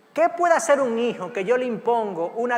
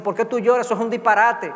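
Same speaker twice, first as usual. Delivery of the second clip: louder, brushing off the tears; dismissive scolding; 5 dB louder than usual. Retold or imitated. Parent to the crying child, dismissive and scolding. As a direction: wave the child's problem away as nonsense.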